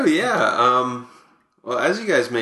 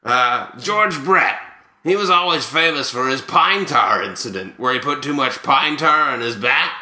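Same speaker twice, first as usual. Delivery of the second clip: Buck Martinez. Acted. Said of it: "here to present these is Buck Martinez".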